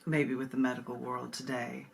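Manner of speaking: slow, intimate recital with long pauses; poem reading. Acted. Reads the poem Twin.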